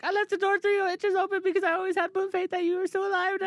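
put-on high, tearful girl's voice; imitating Eleven tearful. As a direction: quote her through fake tears. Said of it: "she's like".

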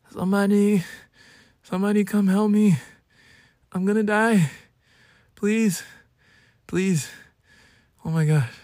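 high, hammed-up cry for help; drama-king pleading. Sick drama king calling for somebody to help, high mock-desperate pleading. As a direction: beg melodramatically as if dying. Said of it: "I am such a drama king".

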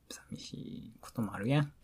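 soft pleading whisper; pillow talk. Acted. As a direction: whisper a lonely plea. Whispered plea to sleep together.

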